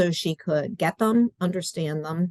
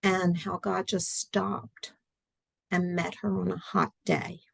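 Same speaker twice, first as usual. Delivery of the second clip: hushed; 5 dB quieter than usual. Real, not acted. Hushed retelling of the story.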